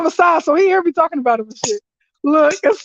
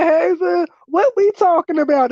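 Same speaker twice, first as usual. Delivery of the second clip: high, bright-toned mock sweetness; sugary greeting; 5 semitones higher than usual. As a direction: greet him sweetly to stake a claim. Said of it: "That's how I come up in here".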